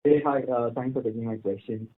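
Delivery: talking away from the handset; speakerphone. Real, not acted. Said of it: "kindly use your handset".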